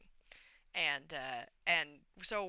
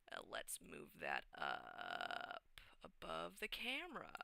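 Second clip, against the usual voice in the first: muttered under the breath while fiddling with the screen; hushed aside to herself; whispered aside; 2 semitones lower, 11 dB quieter, slower than usual. Real, not acted. Streamer fixing her overlay, whispering to herself.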